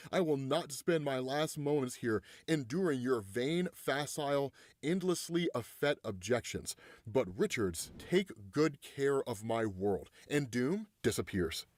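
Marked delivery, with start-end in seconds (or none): 0.1-10.1 measured villain's farewell; proud villain, solemn. Acted. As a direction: deliver a dignified last speech. Villain's parting speech read out.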